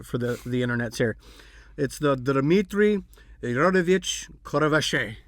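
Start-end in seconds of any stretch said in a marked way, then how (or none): 1.8-5.2 a lightly put-on Russian accent, drawing the name out. Podcast host tries the hacker leader's name in a mock Russian accent. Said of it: "I'll do my best Russian accent".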